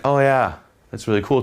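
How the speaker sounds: blasé. Shown as a demonstration. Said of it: "tonality is gonna go from".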